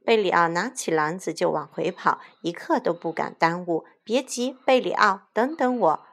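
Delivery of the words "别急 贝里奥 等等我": raised, higher call from behind. Acted. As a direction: call after someone running off. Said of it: "在后面大喊". (在后面高声喊)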